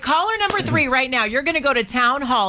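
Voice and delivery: upbeat host calling out the contest winner; radio host announcing the ticket winner to listeners, upbeat announcer read; radio giveaway announcer. Acted. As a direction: sell the prize like a radio host.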